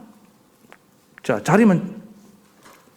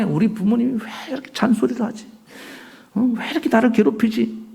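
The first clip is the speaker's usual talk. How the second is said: a child's complaint, voiced lightly higher; grumbling child; 4 semitones higher than usual. Preacher voicing a child annoyed at nagging parents, lightly whiny. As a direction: whine a little like a sulky kid.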